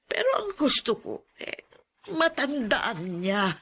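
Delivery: voice breaking. Acted. Grandfather explaining, voice breaking.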